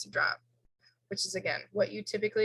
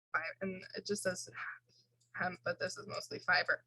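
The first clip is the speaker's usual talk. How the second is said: talking through hiccups; words broken by hiccups; 6 dB quieter than usual. Real, not acted. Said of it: "Sorry, I have the hiccups".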